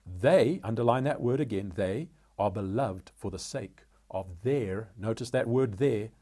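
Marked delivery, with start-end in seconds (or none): 0.1-0.6 "they" set apart and said firmly; stress on they. Real, not acted. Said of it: "placing emphasis on those words". 1.8-4.9 slow reading that halts on "their"; measured scripture reading, "their" held out at the end; stress on their. Real, not acted. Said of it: "placing emphasis on those words".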